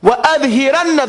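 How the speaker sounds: fast chanted وَأَظْهِرَنَّ; recited Arabic. Shown as a demonstration. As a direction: recite وَأَظْهِرَنَّ with a doubled noon.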